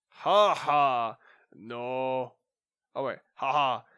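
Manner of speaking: mock villain laughing, slow taunting; gloating scientist. Scientist taunting the police detectives, slow gloating villain.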